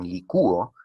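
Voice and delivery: "licúo" stressed on ú, separate from o; stressed hiatus. Shown as a demonstration. Teacher pointing out the closed vowel in "licúo", stressed ú. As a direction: make ú the strongest vowel in "licúo". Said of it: "sonaría más la vocal cerrada".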